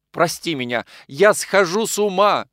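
loud, high, slowing cry of despair; desperate plea. A narrator's reading. Nikolai at Anna's feet begs forgiveness, desperate cry. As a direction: beg as if losing your mind.

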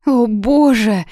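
high, loud, slow wail; sobbing cry. A narrator's reading. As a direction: break down into sobs. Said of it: "зарыдала Юна". (с рыданием)

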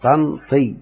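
طنطي split as "Tan - Tii"; teacher sounding out طنطي; syllable-by-syllable demo. Shown as a demonstration. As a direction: say طنطي in two separate beats, alif dropped. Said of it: "فهذه الألف تحذف".

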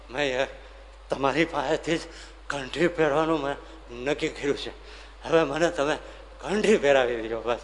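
acted winded plea in broken bursts; out of breath. Farmer at Maharaj's feet after running, begging breathlessly for a kanthi. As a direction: puff the words out, a few at a time. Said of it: "હમાય નહીં, બોલવાનો હવે તો વેત રહ્યો નહીં".

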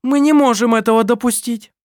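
loud, high, hard metallic command. Acted. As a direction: ring out cold and metallic. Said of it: "металлическим голосом".

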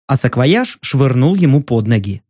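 usual speaking voice

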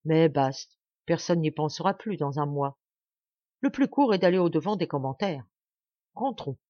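resolute, brushing it off; decide firmly and move on; most deliberate tone. Acted. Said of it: "du ton le plus délibéré". (ton le plus délibéré)

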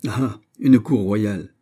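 slow, strained mock amusement; forced laugh. Old lady pretends to laugh off Montalais, slow and forced. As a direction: force a laugh you don't feel. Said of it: "en s'efforçant pour rire".

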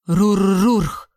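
growling monster bark; creature bark. Acted. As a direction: snap it out like an angry beast. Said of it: "рявкнуло существо".

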